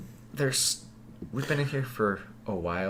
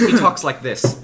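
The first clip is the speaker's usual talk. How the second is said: nasal voice imitation; 5 semitones higher, 10 dB louder, slower than usual. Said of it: "With a nasally voice".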